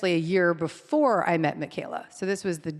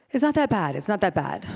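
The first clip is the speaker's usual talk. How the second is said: a hint of a quiver in a retold plea. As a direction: protest weakly, voice trembling. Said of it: "My voice quivers".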